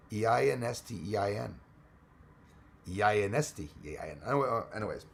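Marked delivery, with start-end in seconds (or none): 0.1-1.6 "E I N S T E I N" as run-together English letter names; sounded-out letters. Shown as a demonstration. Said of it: "the letters, um, in English". 2.9-4.2 "E I N S T E I N" rattled off as one phrase; sounded-out letters. Shown as a demonstration. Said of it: "the letters, um, in English".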